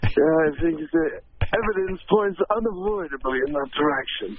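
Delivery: put-on British detective; Sherlock Holmes. Actor giving a verdict in character, British detective voice. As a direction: deduce it in a British accent. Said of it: "Mister Holmes, is O J guilty?".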